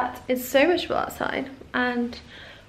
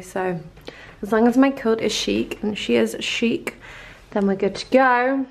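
put-on South African accent. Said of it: "stop speaking in South African".

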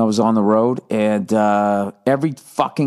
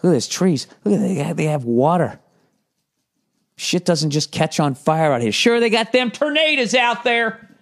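high, marvelling country voice; goofy rural awe, climbing higher at the end; envious mock yokel; 7 semitones higher than usual. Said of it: "I was like".

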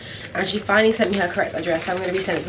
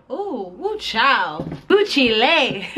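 playful slow exclamation; 4 semitones higher, much slower than usual. Real, not acted. Playful sounds while curling hair.

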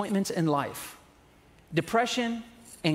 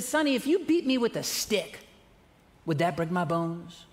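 a hint of frail old grandma; 3 semitones higher than usual. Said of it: "She said".

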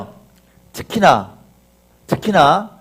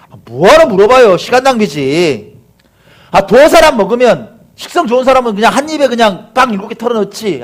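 dismissive objection; 4 semitones higher, 4 dB louder than usual. Acted. Acted objection to Jesus's question.

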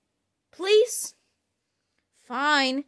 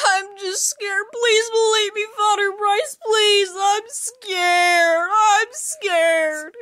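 pleading scared; 6 semitones higher, slower than usual. Acted. Girl begging priest to believe.

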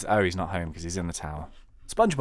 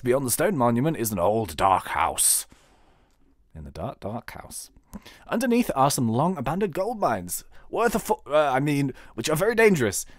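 mayor voice; 4 semitones higher, 5 dB louder than usual. Acted. Mayor NPC quest text.

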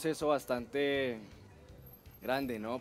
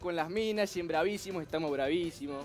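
lightly voiced Argentine porteño, a bit higher; hint of Argentine swagger; Argentine accent; 4 semitones higher, 4 dB louder than usual. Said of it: "¡Argentino!". (acento argentino ligero con picardía)

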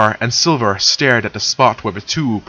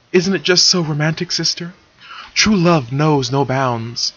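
dreamy; 5 semitones higher than usual. Acted. Luna gushing over romance.

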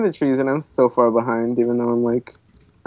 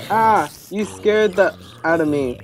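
bleeped out; 4 semitones higher, slower than usual. Real, not acted. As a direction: curse word beeped out. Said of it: "I had to beep it out".

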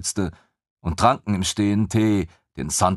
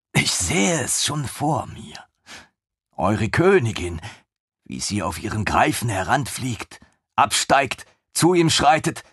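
dreamy eager lieutenant; 3 semitones higher than usual. Acted. Lieutenant dreaming aloud of the queen's execution, high and rapt. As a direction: paint the vision like a delighted fan.

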